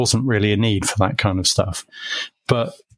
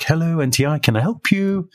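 higher, sing-song receptionist answer; chirpy phone greeting; 7 semitones higher than usual. Retold or imitated. New employee answering the company phone, bright and higher.

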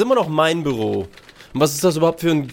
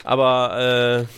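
usual speaking voice

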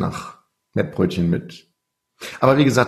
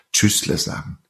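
Swiss German goodbye; slower than usual. Shown as a demonstration. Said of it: "wenn ich was sagen würde".

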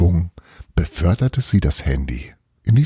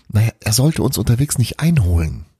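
shaky voice; 4 semitones higher than usual. Acted. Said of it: "sagte Belana mit wackeliger Stimme".

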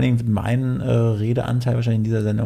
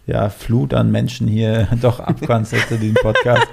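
laughing; 4 dB louder than usual. Real, not acted. Jokes while laughing.

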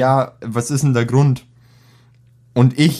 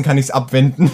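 chuckling through the words; laughing. Retold or imitated. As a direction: laugh while telling it. Retold thought, breaks into laughter. (lachend erzählt)

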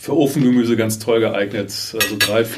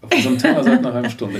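laughing; 2 semitones higher, faster than usual. Real, not acted. Repeats the joke laughing.

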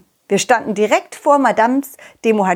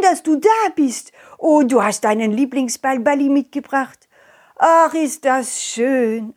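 Madame de Mohatschi voice; 2 semitones higher than usual. Acted. Sick lady greets visitor.

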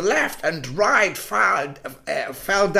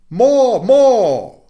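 put-on high, loud child crying for more; a greedy boy shouting for more; excited cry; 8 semitones higher, 9 dB louder than usual. Little boy crying to the moon for more, high and loud. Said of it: "he cried".

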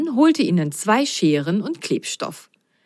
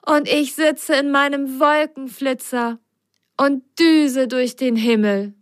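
dreamy; 7 semitones higher than usual. Acted. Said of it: "Ben träumte sogleich".

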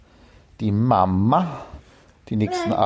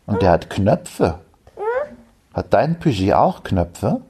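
goodnight voice. Shown as a demonstration. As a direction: read it like tucking a child in. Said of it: "ich wechsle in die Gute-Nacht-Stimme".

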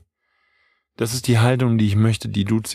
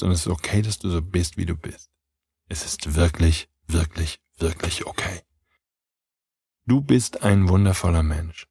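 quieter and lower, tender "wirklich, wirklich okay"; soft reassurance; 5 semitones lower, 3 dB quieter than usual. Real, not acted. Coach reassures listener they are fine, quiet tender warmth. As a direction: hold them with a soft low voice.

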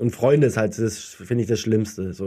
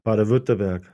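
Baden-Württemberg in broad Swabian, Baden-Württemberg with the r and n swallowed; Swabian dialect. Shown as a demonstration. Asked by his co-host, says the state's name in Swabian dialect. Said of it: "Wie spricht man's denn mit Slang aus?".

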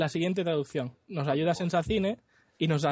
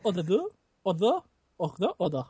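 mock Danish accent. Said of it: "es un poco francés".

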